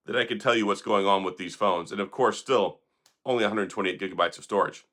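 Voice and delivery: losing voice from being sick; hoarse, worn-out voice. Real, not acted. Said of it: "I'm sorry I'm losing my voice".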